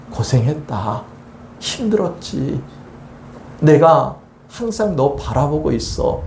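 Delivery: God comforting. Acted. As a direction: gently reassure a tired child. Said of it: "하나님께서도 지금 여러분들을".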